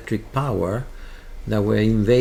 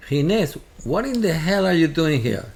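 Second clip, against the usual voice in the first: raised, higher-pitched burst of mock disbelief; astonished greeting; 7 semitones higher, 4 dB louder than usual. Priest finding his old kibbutz friend at the door, astonished. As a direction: act out stunned recognition at the door.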